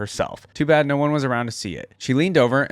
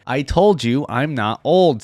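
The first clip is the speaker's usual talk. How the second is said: exasperated insistence; 3 semitones higher, 5 dB louder, slower than usual. Acted. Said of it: "said Tristana".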